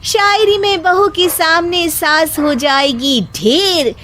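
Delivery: daughter-in-law firing back a couplet at her mother-in-law; daughter-in-law's couplet. Acted. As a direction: answer in verse with a triumphant flourish. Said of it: "शायरी का तीर छोड़ा".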